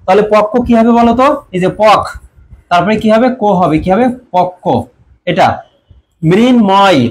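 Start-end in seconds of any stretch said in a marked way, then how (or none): 1.8-2.0 পক closed firmly on the k; teacher's syllable demo of পক; doubled consonant. Shown as a demonstration. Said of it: "সেই বর্ণটা দ্বিত্ব হয়". 4.3-4.7 পক্ক with a held double k; doubled consonant. Shown as a demonstration. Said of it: "সেই বর্ণটা দ্বিত্ব হয়".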